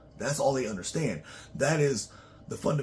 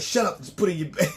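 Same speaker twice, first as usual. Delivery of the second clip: bossy wife; 6 semitones higher, 6 dB louder, faster than usual. Retold or imitated. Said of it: "she like".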